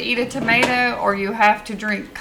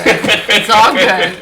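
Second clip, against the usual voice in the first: drawn-out reassurance; 7 dB louder, much slower than usual. Acted. Stretched repeat, laughing.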